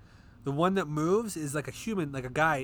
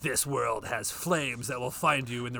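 horror trailer voice. Pretend. Trailer parody.

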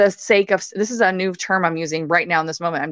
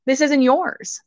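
retold yelling at client; 4 semitones higher than usual. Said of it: "I'm also saying".

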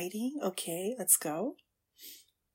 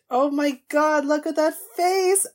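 excited gushing; 7 dB louder than usual. Real, not acted. Reacting to character's face.

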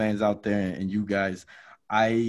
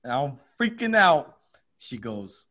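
ordinary talk

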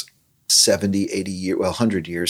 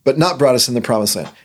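higher, louder, faster chant; building recitation; 7 semitones higher, 4 dB louder, faster than usual. Retold or imitated. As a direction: build the litany with rising energy. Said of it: "It just builds the stories".

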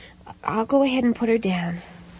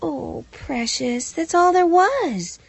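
tender; slower than usual. Real, not acted. Mother comforts child, slowly.

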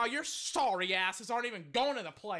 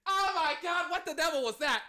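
higher, excited cry of amazement; astonished exclamation; 4 semitones higher, 4 dB louder than usual. Real, not acted. Reeling from the stunning play, high astonished exclamation.

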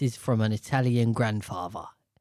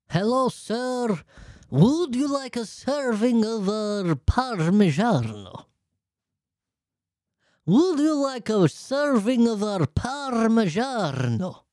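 high, slow, hammed-up Italian waiter; put-on Italian accent; 9 semitones higher, slower than usual. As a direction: stretch it out like a mock Italian waiter. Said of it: "he could have done an Italian accent".

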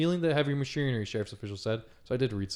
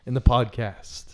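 slow guided voice; slower than usual. Shown as a demonstration. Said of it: "Let's do an exercise".

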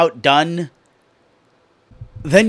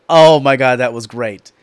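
louder burst on Oh my God, then fading; delighted; 4 semitones lower, 5 dB louder than usual. Real, not acted. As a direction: gush with real delight, then drop off. Delighted after the match.

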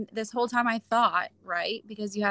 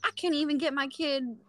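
exasperated disbelief; 6 semitones higher than usual. Retold or imitated. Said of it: "And I'm like".

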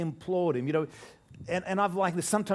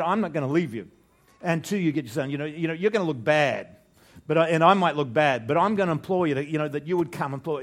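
insistent, louder plea that will not let go; loud imploring; 6 dB louder than usual. Retold or imitated. Preacher voicing the nobleman begging Jesus, loud and insistent. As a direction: press him hard, refusing to leave. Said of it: "it's the nobleman who says, you know, who implores".

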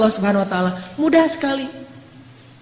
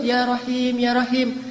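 gentle plea; 4 dB quieter, slower than usual. Retold or imitated. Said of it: "dengan bahasa yang lembut".

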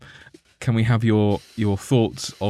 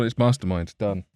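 nonchalant. Retold or imitated. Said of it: "Like, completely nonchalant".

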